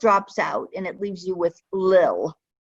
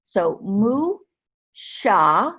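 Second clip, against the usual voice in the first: "mu", "sha" as two separate syllables; staccato; much slower than usual. Shown as a demonstration. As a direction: clip each syllable apart. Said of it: "It's, it's Sheen and Aleph".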